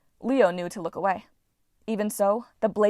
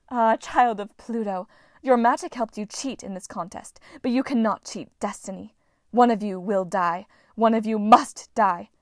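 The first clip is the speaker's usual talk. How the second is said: ominous goddess; 4 dB louder than usual. Acted. Goddess pronounces doom.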